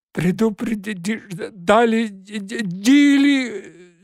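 gasping, stammering out of breath. Acted. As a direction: choke the words out breathlessly. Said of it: "задыхаясь".

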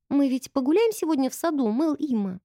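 put-on innocent girl.

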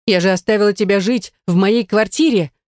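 ordinary delivery, nothing marked

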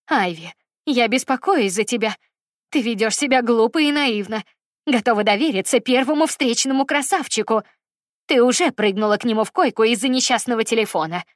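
put-on a mother berating her girl, building in force; angry lecture.

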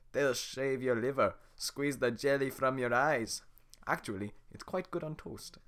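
slow loud ogre menace; Shrek voice. Acted. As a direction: relish every gross word. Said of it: "the Shrek voice".

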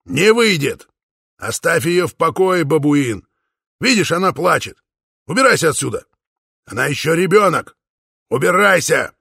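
high, loud angry father yelling; furious shouting. A narrator's reading. Father protecting his crying daughter, shouting angrily. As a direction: drive the suitor away at full volume. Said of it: "яростно крикнул Упа".

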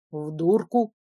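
surprised echo. A narrator's reading. Duke echoes surprised.

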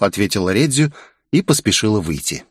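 ordinary delivery

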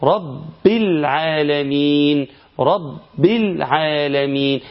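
very slow, stressing the doubled ب in رب; slow chant of رب with strong shadda; shadda demo. Shown as a demonstration. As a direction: lean hard on the ب of رب and hold it. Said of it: "ممكن تسمع إيه".

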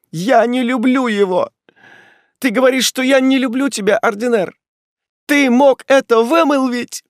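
high, loud wounded cry; heartbroken protest. Acted. Ethel answering Ordener's accusation with a loud high cry. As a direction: hurl it back at him, hurt and outraged.

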